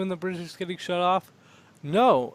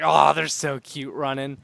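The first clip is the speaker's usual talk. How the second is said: cooing; 5 dB louder, slower than usual. Retold or imitated. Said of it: "it's just like".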